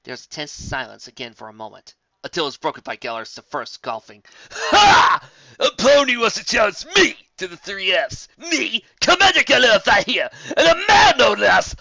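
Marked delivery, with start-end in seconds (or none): 4.5-11.7 loud, high mocking boast; boastful griffin. A narrator's reading. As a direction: scoff at the pony. Commander mocking the challenge.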